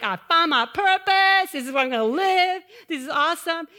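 high, loud, overjoyed; thrilled kid. Retold or imitated. Little girl on horse, gushing with joy. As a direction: gush like a happy girl. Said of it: "She's like".

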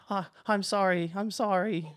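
high, loud cries of sorry; frightened yelp. Acted. Snips cries out after being kicked down. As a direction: plead as you hit the floor. Knocked down, apologizing.

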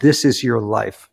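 slow, stern monk; monk looks into the camera and speaks sternly to Ian. Retold or imitated. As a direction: imitate a stern spiritual director, slowly. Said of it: "in a very stern voice".

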